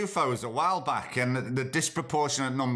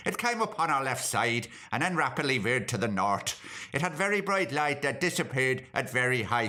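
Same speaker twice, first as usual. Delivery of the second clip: put-on Irish accent. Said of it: "I've done that in Irish accent".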